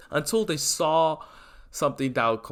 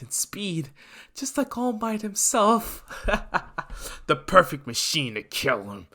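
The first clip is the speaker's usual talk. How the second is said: taunting villain; 3 semitones higher than usual. Acted.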